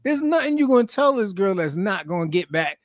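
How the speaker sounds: high, pushed-up voice lecturing the guy; imitating telling off a cheater. Viewer scolding a cheating contestant, mock lecture. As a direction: scold him like a fed-up friend. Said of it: "And I'm just there like".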